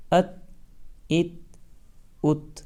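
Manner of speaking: ات ending on a held, unbounced ت; still sakin letter. Shown as a demonstration. Teacher drilling students: ات with a still ت. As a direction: stop the ت in ات dead, no bounce. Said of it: "بالکل بھی نہیں اچھلے گی".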